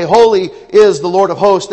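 "Holy is the Lord of hosts!" said with an exclamation lift; exclaimed. Shown as a demonstration. Preacher showing the congregation an exclaimed version. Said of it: "exclamation point".

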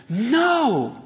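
put-on a small child's shocked no; horrified child. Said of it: "she stamped her foot and was horrified".

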